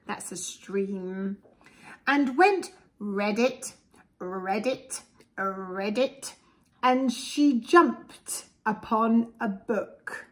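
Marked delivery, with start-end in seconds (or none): 3.0-6.3 frog croak. Acted. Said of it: "sounds a bit like ribbit".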